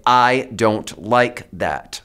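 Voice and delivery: "I don't like that." slow and deliberate; firm and slow. Shown as a demonstration. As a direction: lay each word down steady.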